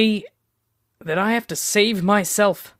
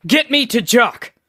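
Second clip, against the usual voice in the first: urgent shout; 5 semitones higher, 4 dB louder than usual. Acted. Urgent demand.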